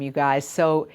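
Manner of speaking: ordinary talk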